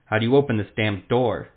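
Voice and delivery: impatient shout through stone. Acted. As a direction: shout it from the other side of the wall. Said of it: "the Witcher shouted".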